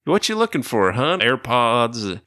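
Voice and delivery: high, chirpy questioning; a touch of the eager manager; lightly voiced manager. The theater manager asking what he's looking for, high voice.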